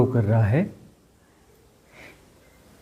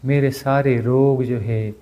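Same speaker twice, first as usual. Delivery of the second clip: measured, even self-healing chant-like speech; guided healing affirmation. Real, not acted. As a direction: affirm it phrase by phrase, with pauses.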